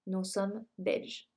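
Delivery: Nous sommes Belges, read slowly and clearly; slow, careful classroom French; slow model answer. Shown as a demonstration. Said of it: "sino que ocupo el verbo être".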